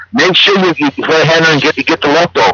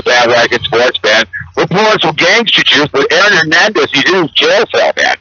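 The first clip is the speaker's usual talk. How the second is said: loose, rowdy bro character talking to the camera; a sports bro cartoon host, lightly voiced. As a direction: ham up a sports-talk host from the Bay. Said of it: "So I'll do the voice for the guy".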